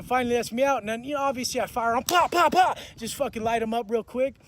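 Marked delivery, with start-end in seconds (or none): 2.0-2.8 loud, high "pop" for each punch; imitated punch sounds. Firing on the cellmate once released, imitated punch sounds. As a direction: punctuate the punches with sharp pops.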